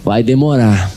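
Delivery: grave counsellor. Retold or imitated. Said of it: "eles falaram assim".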